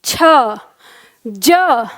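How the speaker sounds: छ then ज, each said alone and crisp; consonant demo. Shown as a demonstration. Teacher sounds छ and ज for class practice, crisp. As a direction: model छ and ज one by one. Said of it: "किस स्थान को छू रही है जीभ".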